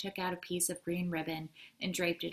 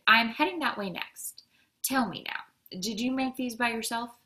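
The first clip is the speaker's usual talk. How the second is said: higher, louder, animated postman; lively friendly chat; 5 semitones higher, 6 dB louder than usual. A narrator's reading. Postman asks the girl about her dog treats, lively and friendly. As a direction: ask with keen, friendly interest.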